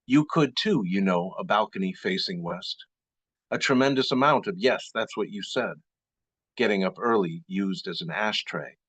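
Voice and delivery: measured poem recital with pauses between phrases; deliberate, spaced-out poetry delivery; poetry reading. Acted. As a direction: read it as verse, line by deliberate line. Reads second poem aloud.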